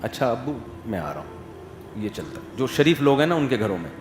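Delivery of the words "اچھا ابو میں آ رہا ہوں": obedient son. Retold or imitated. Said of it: "باپ بیٹے کو سمجھاتا ہے".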